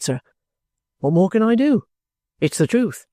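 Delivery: lightly voiced soldier, plain-spoken; firm and composed, pitched a little under the narration; steadfast trooper. Trooper insists to the guardian on his innocence, steadfast.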